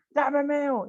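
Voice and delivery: high, loud shout at full lungs; shouting in church. Acted. The sister shouts at Urdemales in church, full-lunged shout. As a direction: yell it across the church. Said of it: "le gritó a todo pulmón".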